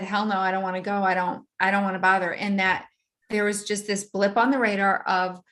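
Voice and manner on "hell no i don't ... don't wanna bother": quick, dismissive inner voice; a hurried grumbling no; egoic voice. Retold or imitated. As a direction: rattle off the refusal fast. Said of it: "my egoic voice said".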